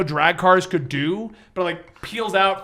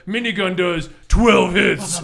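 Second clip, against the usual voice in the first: mock announcer shout; slower than usual. GM hamming up the minigun for the players, slow mock shout. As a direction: bellow the stat like a hype announcer. GM voicing the game mechanic.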